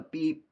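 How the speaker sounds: one short light beep; brief mock honk, just one beep; quick honk imitation. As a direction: mimic a single quick tap of the horn. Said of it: "like, a quick one".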